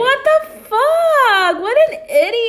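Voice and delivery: high, loud, drawn-out disbelief; incredulous outburst. Real, not acted. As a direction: stretch it out in shocked disbelief. Reacting to the dumb student.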